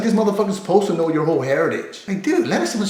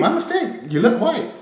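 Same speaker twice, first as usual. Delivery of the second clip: mock apology; 5 semitones higher than usual. Shown as a demonstration. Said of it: "All you have to say is this".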